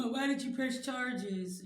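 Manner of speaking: high, slow whiny accusation; imitating a resentful relative; mocking accuser. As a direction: mimic a whiny relative, drawn out. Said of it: "Tell me".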